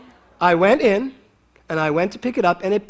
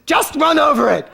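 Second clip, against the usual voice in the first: laughing high and loud; 10 semitones higher, 4 dB louder than usual. Retold or imitated. Telling Kevin to run over the snake, laughing loudly. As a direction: toss it off through laughter. Joking suggestion to husband.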